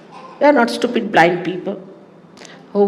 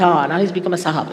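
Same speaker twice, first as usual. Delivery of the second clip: mocking sahib remark; faster than usual. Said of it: "they say".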